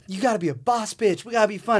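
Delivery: mock a girl pumping up her friends; mock hype girl. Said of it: "Audrina doesn't talk like that".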